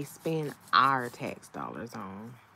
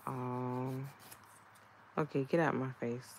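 dismissive brush-off. Retold or imitated. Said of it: "I was like".

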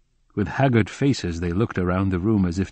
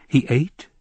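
mildly surprised question, pitched higher; 5 semitones higher, 4 dB louder than usual. A narrator's reading. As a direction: ask it in surprise. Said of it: "I asked in surprise".

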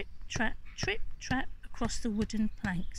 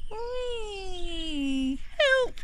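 troll falling cry; 10 semitones higher than usual. Acted. Troll flung into the air.

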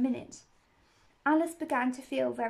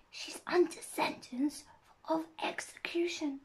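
whispered; 5 semitones higher than usual. A narrator's reading. Rabbit whispers a secret to Alice. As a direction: whisper it close to the ear. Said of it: "and whispered".

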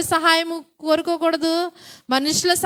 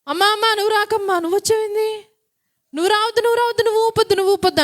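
put-on higher, quick shooing of the childless woman; mocking woman; 4 semitones higher, much faster than usual. Women at a cradle rebuffing a childless woman, lightly mocking. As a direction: shoo her away from the cradle, a touch mocking. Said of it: "ఉయ్యాలు ఊపుతారు చాలామంది".

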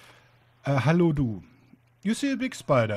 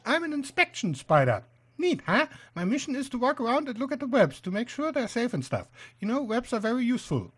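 chatty little spider, higher voice; high-pitched inspection spider; 5 semitones higher than usual. Acted. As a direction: explain your job in a raised spider voice.

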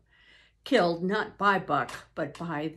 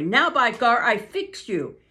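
louder angry threat; a milder take of the angry driver's threat; 4 semitones higher, 8 dB louder than usual. Acted. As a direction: threaten the dog with the club. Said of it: "Francois was angry".

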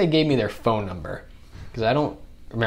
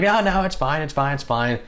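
mock brush-off; 5 semitones higher than usual. Dazed brush-off of crew.

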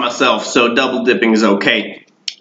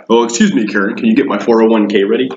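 white people voice; 2 semitones lower, faster than usual. Retold or imitated. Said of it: "Or my, uh".

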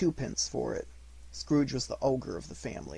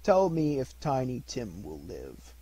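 Scrooge pleading; slower than usual. Acted. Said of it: "with an interest he had never felt before".

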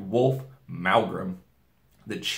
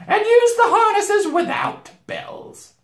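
slow, high shouted command; witch giving orders; 9 dB louder, slower than usual. A narrator's reading. Witch ordering the sledge made ready, shouting high. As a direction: call it out imperiously. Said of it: "ordered the witch".

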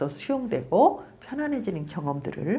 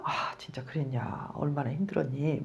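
softer, gentle sympathy from the counselor; soothing counselor; 3 semitones lower, 8 dB quieter than usual. Retold or imitated. Counselor comforting an angry client, soft and gentle. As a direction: hush it down like comforting someone.

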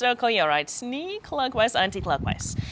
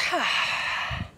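soft exhale sigh; 5 semitones higher, 5 dB quieter than usual. Shown as a demonstration. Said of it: "Let it out".

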